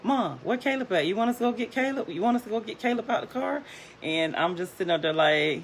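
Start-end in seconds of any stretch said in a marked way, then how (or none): 0.0-3.6 put-on high, rapid kid questions; quick, high, eager child voice; eager kids, imitated. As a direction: imitate children pestering mom, fast and pitched up. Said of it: "the kids are like".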